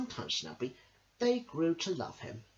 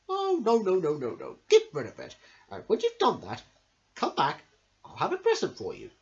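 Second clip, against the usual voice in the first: louder, grateful crocodile; 4 semitones higher, 7 dB louder than usual. Acted. Crocodile refusing the tooth, loud and grateful. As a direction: wave the tooth away, then offer kindly.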